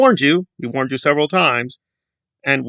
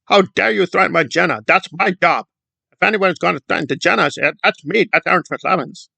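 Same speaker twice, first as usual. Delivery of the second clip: mocking Aaron; 4 semitones higher than usual. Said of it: "they're not following the propaganda".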